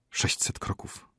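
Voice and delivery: soft, voiceless whisper; whispered reply. A narrator's reading. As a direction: whisper the grim count. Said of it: "szepnął lekarz". (cichym szeptem)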